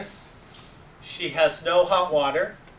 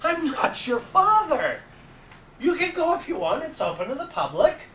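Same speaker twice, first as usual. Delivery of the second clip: mock gruff reply; 10 semitones higher than usual. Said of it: "And I said".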